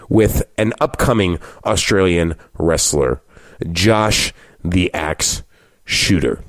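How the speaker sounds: slow, spaced-out episode announcement; measured podcast intro, drawing out the name; announcer style. Acted. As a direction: present the guest with deliberate pauses. Podcast host announces the episode and guest.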